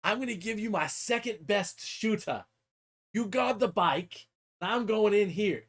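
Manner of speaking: imitated boss, drawing words out; mech boss. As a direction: hand out orders like an orc boss. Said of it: "And he's like".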